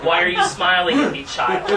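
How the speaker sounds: demonstrating the snooty character voice; aloof snotty character. Shown as a demonstration. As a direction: look down your nose at them and sneer. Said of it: "I talk like this".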